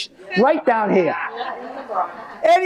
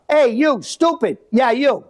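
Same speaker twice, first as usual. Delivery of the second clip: a touch of mock yell from the porch; mother yelling down. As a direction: call down at him like a scolding mother. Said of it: "yell down".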